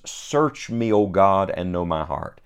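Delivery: measured, solemn reading of King James verses; scripture reading. Acted. Reads the psalm's closing verses.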